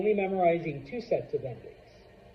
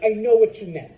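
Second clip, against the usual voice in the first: emphatic; 4 semitones higher, 13 dB louder, faster than usual. Real, not acted. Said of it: "teacher stresses point".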